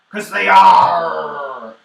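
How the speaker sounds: pirate joke punchline, hammed-up bellow.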